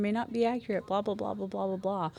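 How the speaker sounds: lightly mocking label read; mock warning text. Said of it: "they have the little thing".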